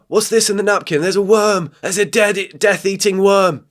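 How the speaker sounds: disgusted shock. Real, not acted. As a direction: cry out at the worm in horror. Disgusted reaction to video.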